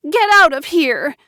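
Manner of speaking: high, loud hysterical shout; hysterical scream. A narrator's reading. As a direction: scream at her to leave. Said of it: "Joanna screamed hysterically".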